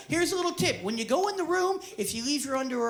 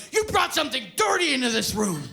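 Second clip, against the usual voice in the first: retold yell; 4 dB louder than usual. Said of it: "yells out".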